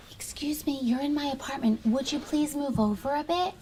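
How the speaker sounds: teacher softly quoting a student's kind words. Retold or imitated. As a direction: quote the child gently. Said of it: "Victoria was like".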